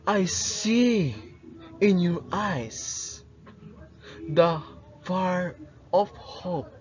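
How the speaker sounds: passionate monologue. Acted. Rizal addressing the youth of his country, passionate and inspiring. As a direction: deliver a stirring speech, weighing each phrase. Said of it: "direct address and passionate tone".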